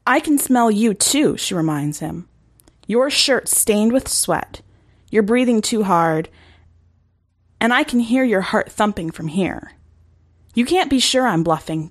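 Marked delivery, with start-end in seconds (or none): 0.1-1.4 higher, defiant retort; defiant girl. Acted. Reagan turning the taunt back on the wolf, defiant and higher. 2.9-11.9 put-on taunting girl. Reagan taunting the wolf.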